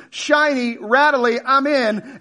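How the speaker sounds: high, eager fish voice; dazzled fish. Acted. Fish falling for the metal lure, dazzled.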